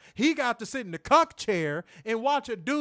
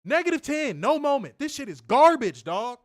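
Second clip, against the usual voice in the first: higher, louder verdict; angry rant; 4 semitones higher, 4 dB louder than usual. Real, not acted. Host rating the segment, heated and raised. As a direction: slam the segment. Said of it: "I have not had a rant in a minute".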